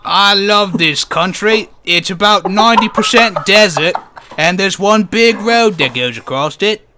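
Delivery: put-on loud, slow, broad Australian accent. Co-host poses as a proud local, broad mock Australian. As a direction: pitch it high and hammed-up Aussie. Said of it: "Okay, Australian accent".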